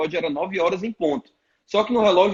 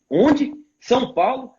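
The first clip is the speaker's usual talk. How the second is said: higher, startled double take; mock surprise; 6 semitones higher, slower than usual. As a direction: imitate the pastor's shock at the news. Pastor hears he left. (surpresa imitada, voz mais aguda)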